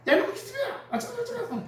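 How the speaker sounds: high-pitched scolding mimic of a little kid, laughing; scolding mother. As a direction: screech it like a tiny kid copying mom. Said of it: "그 엄마가 맨날 걔 보고".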